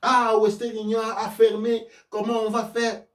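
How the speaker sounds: imitated lamenting crowd; mock lament. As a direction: wail mockingly like a helpless customer. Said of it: "Et tout le monde se lamente".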